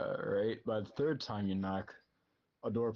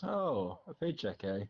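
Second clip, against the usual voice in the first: put-on sly old lady; slower than usual. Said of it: "The lady goes".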